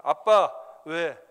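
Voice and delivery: slow, loud call to dad; drawn-out call. Retold or imitated. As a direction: stretch the call out across the house. Son calls father again.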